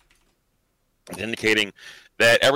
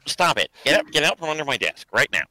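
sharp command, high on the first word; real scolding; 5 semitones higher than usual. Real, not acted. Speaker to a cat under the desk, real scolding. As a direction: order the animal out.

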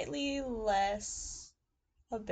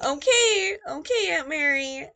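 meek concession; 6 semitones higher, 11 dB louder, slower than usual. Retold or imitated. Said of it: "And I'm like".

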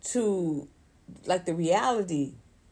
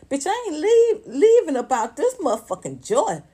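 loud emphatic declaration; 7 semitones higher, 6 dB louder than usual. Real, not acted. Vlogger refusing to give up her joy, loud. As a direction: hammer the point home.

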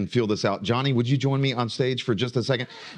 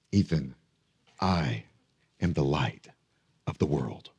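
confident claim; 12 semitones lower, 5 dB quieter than usual. Retold or imitated. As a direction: say it dead serious, looking him in the eye. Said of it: "Johnny looking me in the eyes and saying".

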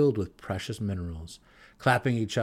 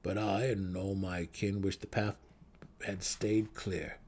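grim mutter; 6 dB quieter than usual. Acted. Gnome wishing the path stayed clear, quiet and grim. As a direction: wish it away under your breath. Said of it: "he muttered grimly".

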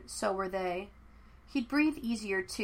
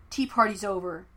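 curt, louder order; barked; 5 dB louder than usual. Acted. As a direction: cut the chatter off sharply. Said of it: "he barked".

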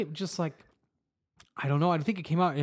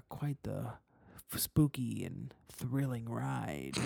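hyped crowd warm up; 3 semitones lower, 6 dB quieter, much slower than usual. Acted. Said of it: "creature feature hype man impression".

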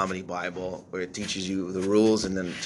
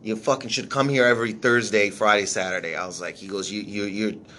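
imitating an angry manager; 3 semitones higher than usual. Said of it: "like, mad at me".

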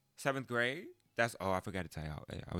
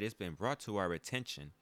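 stern principal; 3 dB louder than usual. Retold or imitated. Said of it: "He said".

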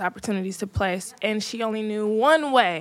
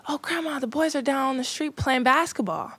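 imitating pleading child; 4 semitones higher than usual. Young self asks grandma permission.

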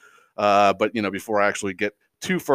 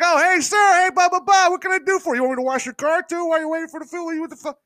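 much higher, louder, over-eager rookie server; eager new guy; 4 dB louder than usual. Retold or imitated. New food service guy greeting customers, high eager gushing. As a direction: gush like a keen first-week hire. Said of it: "You know, it's like".

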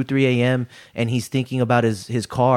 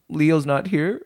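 slow, drawn-out line with rising end; mock lament; 4 semitones higher, slower than usual. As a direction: play up missing a friend, slowly. Mock lament over absent friend.

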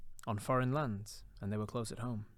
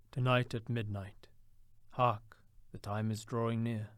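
ghost's reply. A narrator's reading. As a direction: intone like an ageing spirit. Ghost speaks.

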